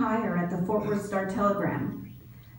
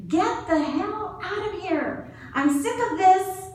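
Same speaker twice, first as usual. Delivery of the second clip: retold angry shout; 9 semitones higher than usual. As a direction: bellow it like a fed-up star player. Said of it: "until Tony shouted".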